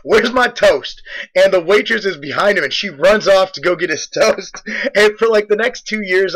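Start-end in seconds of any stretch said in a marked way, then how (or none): 0.0-1.0 blurted demand. Retold or imitated. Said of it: "he just blurred out".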